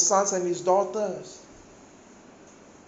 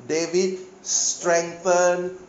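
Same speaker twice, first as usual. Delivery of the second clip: slow reading; much slower than usual. Shown as a demonstration. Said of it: "In my version it says".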